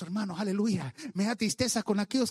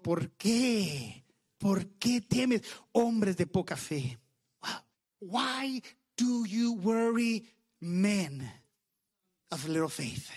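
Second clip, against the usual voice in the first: solemn rebuke; much slower than usual. Retold or imitated. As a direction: voice a solemn question with drawn-out words. Voices Jesus questioning the disciples.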